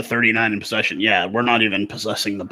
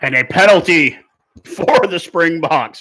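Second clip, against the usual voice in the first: excited; 4 semitones higher, 5 dB louder than usual. Real, not acted. Relief at penalty.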